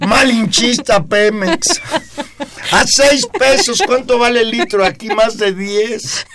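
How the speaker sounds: clown voice. Real, not acted. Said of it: "Valero, con esa voz".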